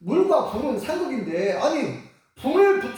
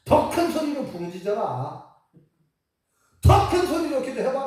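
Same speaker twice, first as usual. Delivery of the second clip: goading call that rises on the repeat; teasing challenge, building in pitch and volume; taunting. Acted. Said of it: "약 올립니다".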